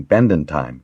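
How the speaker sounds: "Bendon time" lightly stressed; understated emphasis on "Bendon time". A narrator's reading. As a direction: lean gently on "Bendon time". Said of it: "lightly stressed the last two words".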